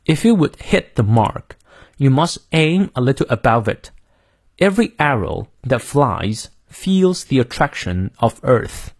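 "hit", "aim" and "Earth" weighted in a model reading; marked sentence stress. Shown as a demonstration. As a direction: read out with the key words stressed, from "If you would" to "Earth". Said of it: "先注意一下它的重音".

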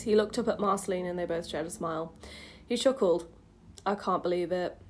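low, subdued read-aloud; story narration. A narrator's reading. Reads old story aloud.

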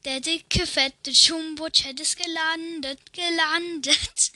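Papagei schreit. Acted. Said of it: "der Papagei schreit".

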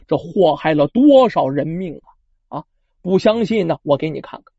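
low, even voice soothing a guilty man; calm, reassuring. Acted. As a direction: gently talk him out of self-blame. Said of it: "心平气和地劝说". (蜈蚣王心平气和地劝慰康志远)

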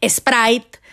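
"Sprite" como "espráit", con acento mexicano. Shown as a demonstration. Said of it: "mi inglés es de acento así mexicano". (inglés con acento mexicano: "espráit")

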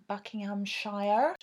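slow mock country-farmer accent; put-on Buckinghamshire accent. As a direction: drag it out in a rural farmer accent. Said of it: "I don't know why I did that accent".

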